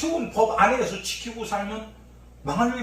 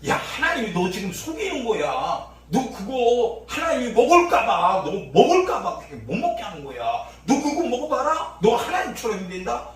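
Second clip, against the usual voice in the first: coaxing, louder serpent voice, half laughing; serpent's temptation; 3 dB louder than usual. Acted. Preacher voicing the serpent tempting Eve, coaxing. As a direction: lure Eve like a sly snake. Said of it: "마귀가 말한 뱀의 소리".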